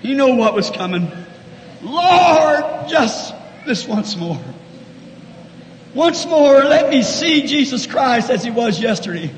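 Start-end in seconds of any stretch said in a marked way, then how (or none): 1.8-9.3 impassioned plea with rising and falling force; dead earnest prayer. Acted. Samson begging the Lord for one more chance, dead earnest prayer. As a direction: cry out to the Lord, drop back, then surge on the plea. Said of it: "Dead earnest, he prayed".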